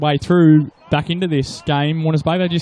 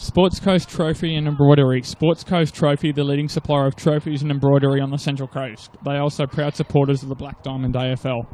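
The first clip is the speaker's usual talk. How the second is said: ad read. Acted. Reads a sponsor ad.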